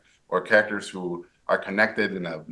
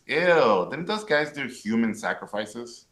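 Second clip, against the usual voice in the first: put-on Valley Girl voice; 2 semitones higher than usual. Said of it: "That's my Valley Girl voice".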